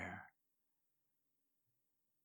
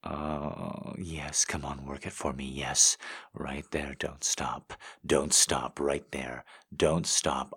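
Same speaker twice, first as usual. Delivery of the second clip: louder, more and more urgent; urgent and rising; 6 dB louder than usual. Acted. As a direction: push harder with each line. Building to a climax scene.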